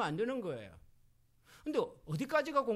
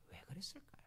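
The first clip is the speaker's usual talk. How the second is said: whispered question, drawing them in; 15 dB quieter than usual. Real, not acted. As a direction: breathe the question like a secret. (청중을 끌어들이는 속삭이는 질문)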